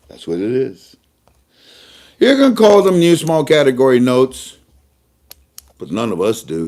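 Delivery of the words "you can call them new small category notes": spelling out the official name; measured naming. Shown as a demonstration. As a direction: lay out the long name carefully. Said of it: "we call them lower denoms".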